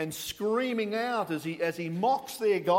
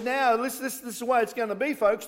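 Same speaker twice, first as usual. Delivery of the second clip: louder and higher, fast decree; rally the crowd with authority; loud commanding Elijah; 4 semitones higher, 4 dB louder, faster than usual. Retold or imitated. Elijah addressing the gathered crowd, loud and commanding. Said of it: "Elijah drew the crowd together and said".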